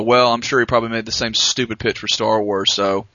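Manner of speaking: a hint of a jaded studio exec; studio executive voice. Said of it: "you are doing the rest of the show in that voice".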